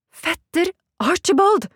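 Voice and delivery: high, drawn-out exclamation; startled cry. A narrator's reading. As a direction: cry the name out in shock, rising at the end. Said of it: "skrek jeg".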